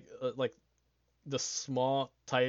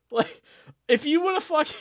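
excited; 14 semitones higher, 9 dB louder than usual. Real, not acted. Excited rant about success.

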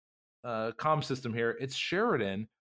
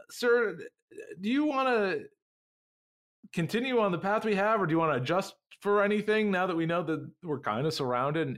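lightly voiced officer; 4 semitones higher than usual. First officer voiced higher.

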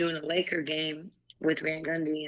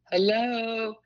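higher-pitched, drawn-out reminder of her presence; mock calling out; 3 semitones higher, slower than usual. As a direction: playfully call out to oblivious colleagues.

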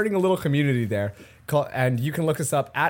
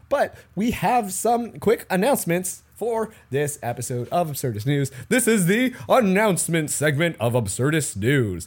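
newscaster voice. Acted. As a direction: announce it like a TV anchor. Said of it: "This is my, like, newscaster voice".

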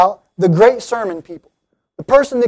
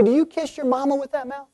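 softer, higher-pitched questioning; quoted reproach; 4 semitones higher, 9 dB quieter than usual. Retold or imitated. Quoting what people used to say, softly reproachful. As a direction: drop the volume for a quoted scolding question. Quotes an old saying as aside.

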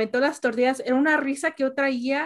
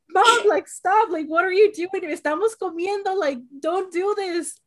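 laughing protest; 5 semitones higher, slower than usual. Retold or imitated. Protesting mom throwing tortillas.

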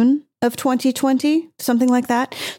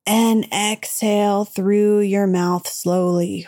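slow, soothing breathing cue; slower than usual. Acted. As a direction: draw it out gently. Guiding an exhale.

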